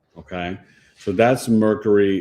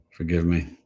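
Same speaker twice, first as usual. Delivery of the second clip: whispered apology; 3 semitones lower than usual. Real, not acted. Vlogger whispers sorry to viewers for tech trouble. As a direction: breathe an apology. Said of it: "whispered apology".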